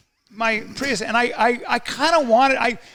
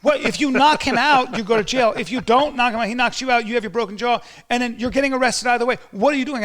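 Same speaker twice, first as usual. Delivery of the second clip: raised, loud, exasperated telling-off; imitating scolding wife; 5 semitones higher, 5 dB louder than usual. Wife scolding husband over a fight, high and loud. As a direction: scold him in a higher, louder voice. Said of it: "my wife at the time goes".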